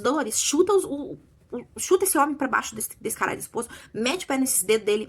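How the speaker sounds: egging the character on from the sidelines; urging on. Retold or imitated.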